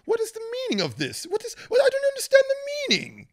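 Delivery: very high-pitched mock outrage; squealed, hammed-up indignation; indignant passenger. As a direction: imitate a flustered man protesting to a cop. Indignant passenger questioned by police.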